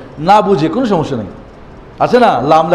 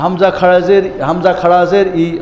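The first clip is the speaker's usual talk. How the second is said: imitating student; slower than usual. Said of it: "কয়".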